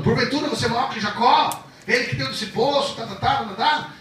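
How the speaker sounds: high, loud, mocking chatter; Samaritan woman rattling on. Preacher mimicking the woman's chatter, high and mocking. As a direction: rattle it off dismissively. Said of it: "Ela tá falando".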